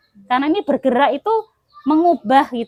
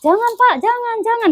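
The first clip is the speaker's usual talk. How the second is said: higher-pitched pleading, acted out; mock pleading cry; 9 semitones higher than usual. Preacher acting out the victim's cry to the women, mock pleading. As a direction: play the girl begging her attacker to stop.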